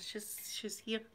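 slow, whispered announcement; hushed. Acted. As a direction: drop to a slow, soft whisper. Announcing her character has taken over.

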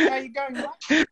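mock Maori accent, as if apologizing; apologetic Maori impression. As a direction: imitate a Maori guy saying sorry with every word. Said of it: "they sound like they apologizing".

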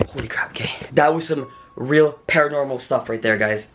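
stunned whispered reaction; awed shaken whisper. Real, not acted. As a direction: whisper it, still rattled. Reacting to floating object.

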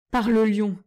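loud, startled oath; old doctor swearing loudly in surprise. Acted. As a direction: blurt it out in amazement. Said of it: "jura-t-il".

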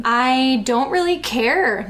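lightly sneered sarcasm, drawn out slow; acted sarcastic brush-off. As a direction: read it with a mild sneer. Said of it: "Niall sneered sarcastically".

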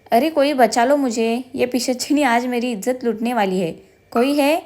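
hammed-up pleading call, slow; overacted damsel-in-distress call, played for laughs; mock melodramatic cry for help. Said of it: "नाटकी आवाजात ओरडत होता".

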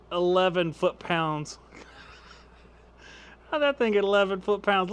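amused laugh through the words; laughing in disbelief. Real, not acted. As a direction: chuckle while reading out the surprising number. Surprised by the weak drill's result.

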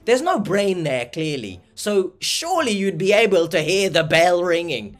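scornful, forceful disbelief; exasperated rant. Real, not acted. Reactor rants at scam victim's denial.

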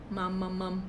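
low, soft pretend munching; munch quietly on nothing; munching noises. Shown as a demonstration. Showing children what a mouth does, soft munching.

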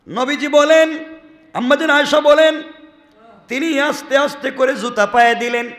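high, loud sermon cry building the story; fervent preaching. Acted. Preacher lifting the crowd with the story, fervent and loud.

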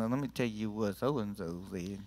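low, hushed gossipy aside; mock gossip. Churchgoer passing on talk about so-and-so, mock-confidential gossip. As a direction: lean in and confide it under the breath. Acting out gossip to other people.

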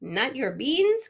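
outraged cry. Acted. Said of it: "cried Skipito, outraged".

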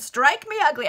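high, loud, half laughing; amused echo of the captain's oath; giggling repeat. Acted. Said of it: "I wonder if Whittingham would be upset".

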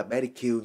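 pedicure begun with a B sound, ending "kiu"; mispronounced pedicure. Shown as a demonstration. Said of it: "Nhiều người đọc là bé đi Q".

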